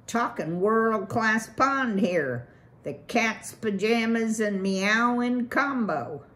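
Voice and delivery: loud, fast-talking swaggering beaver; brash beaver boss. Acted. Beaver boss brags to Valerian about his pond, brash loud pitch. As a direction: sell it like a pushy developer.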